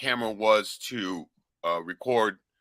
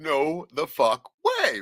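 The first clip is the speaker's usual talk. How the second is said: slow disbelief; 6 semitones higher, much slower than usual. Retold or imitated. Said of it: "just going".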